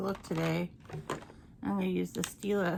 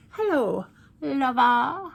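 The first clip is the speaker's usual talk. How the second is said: louder, higher, breaking into a laugh; laughing purr; 4 semitones higher, 8 dB louder, slower than usual. Pretend. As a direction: purr it again and crack up.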